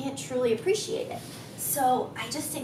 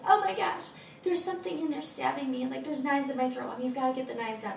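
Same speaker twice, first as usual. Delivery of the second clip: put-on child voice; faster than usual. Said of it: "he woke up this morning saying".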